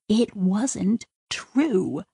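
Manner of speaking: "It wasn't true" drawn out very slowly and softly; slow, hushed realisation. Shown as a demonstration. Sidra quietly admitting to herself, very slow and hushed.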